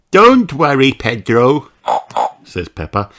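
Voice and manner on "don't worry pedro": put-on little pig girl voice. Peppa voiced.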